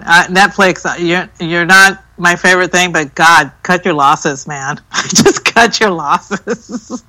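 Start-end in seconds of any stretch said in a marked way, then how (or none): 5.1-7.0 drawn out through laughter; slow laughing repeat. Real, not acted. Laughing again at Netflix, slow and amused. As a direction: laugh it out slowly.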